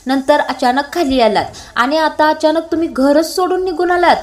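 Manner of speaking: mildly worked-up reproach; hyper, upset. Acted. Parth reproaching Kavya for leaving without telling, mildly agitated. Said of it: "Parth पुन्हा hyper होतो आणि म्हणतो".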